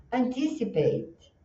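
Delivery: "anticipate" slowly, high on "tis", then falling; stress on TIS. Shown as a demonstration. Teacher models the musicality for students, stress on TIS. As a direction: lift "tis" in "anticipate" and step down softly after it. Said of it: "a sílaba tônica tá no tis".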